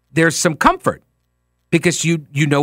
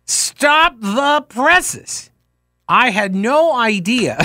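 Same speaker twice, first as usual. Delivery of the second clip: sarcastic mock astonishment; 4 semitones higher, much slower than usual. Sarcastic reaction to bullying claim.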